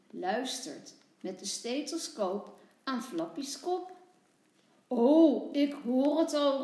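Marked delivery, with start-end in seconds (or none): 4.9-6.6 loud, eager doctor's exclamation; calling out. A narrator's reading. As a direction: call it out brightly as little doctor Tommy. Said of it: "roept hij".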